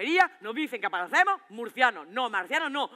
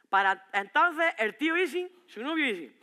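put-on cheeky teen. Voicing the cheeky teen asking.

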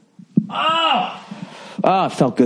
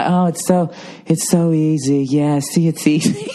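smug mom impression; slower than usual.

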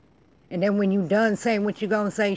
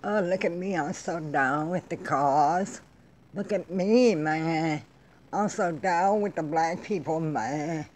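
slow, drawn-out mock activist voice; mocking young activists. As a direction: imitate self-congratulating activists, stretching the words. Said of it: "you walking into these neighborhoods like".

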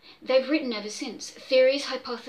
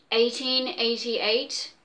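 incredulous repeat; slower than usual. Acted.

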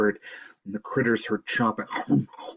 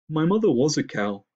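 stuffy, raised moose voice; sniffing moose; 5 semitones higher, 5 dB louder than usual. A narrator's reading. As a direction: say it wounded, through a runny nose. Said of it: "Micah sniffed".

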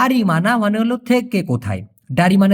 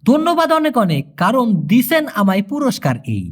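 mock Malaysian word order; 3 semitones higher than usual. Shown as a demonstration. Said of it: "Malaysian ফরম্যাটে বলতে গেলে".

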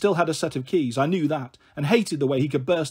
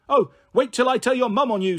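higher, hammed-up scandalised pensioner; outraged old woman; 6 semitones higher, 3 dB louder than usual. Old Kath threatening Baxter after his rude remark, mock outraged. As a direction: threaten to tell his mum, shocked.

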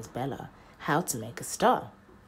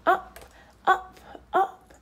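rising; 8 dB louder, slower than usual. A narrator's reading. Rising with the bike.

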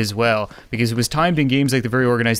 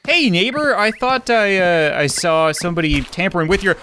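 fake friendly; 3 semitones higher than usual. Addressing neighbor with fake innocence.

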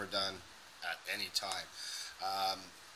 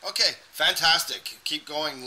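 excited praise; 5 semitones higher, 7 dB louder than usual. Real, not acted. Enthusiastic praise to student.

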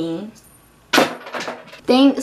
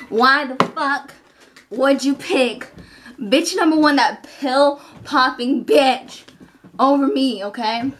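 indignant complaint; 3 semitones higher than usual. Acted. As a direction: let the rejection sting as you drag it out. Rejected bitch complaining.

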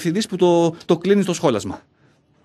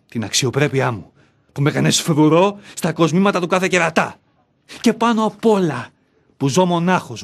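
bitter outburst; 2 semitones higher than usual. Acted. Angry outburst at himself.

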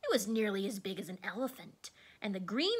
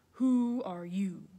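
ball of fire voice; 5 dB louder, slower than usual. A narrator's reading. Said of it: "low, quiet voice".

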